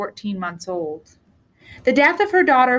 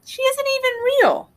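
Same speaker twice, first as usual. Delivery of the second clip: light, raised voice of a doubting mother; mother's voice; 13 semitones higher than usual. Acted. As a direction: voice the mother, mildly teasing.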